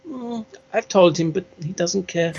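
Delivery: vampire's wife. Acted. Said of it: "And she goes".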